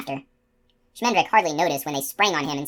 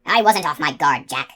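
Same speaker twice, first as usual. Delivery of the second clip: protesting; 4 dB louder than usual. Acted. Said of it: "Coley protested".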